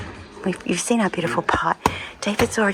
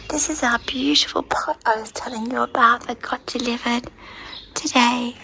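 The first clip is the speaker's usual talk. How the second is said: voiceless, breathy whisper; laryngitis whisper; 4 semitones higher, 3 dB quieter than usual. Real, not acted. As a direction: whisper through a lost voice. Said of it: "I've got laryngitis".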